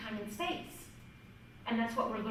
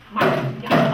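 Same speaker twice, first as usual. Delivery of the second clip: calling out; 14 dB louder than usual. Real, not acted. Calling commands over the drum.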